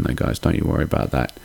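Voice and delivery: hushed, reassuring whisper; soft whispered promise. Real, not acted. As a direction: whisper it like a little secret to the fans. Reassuring aside after sign-off promise.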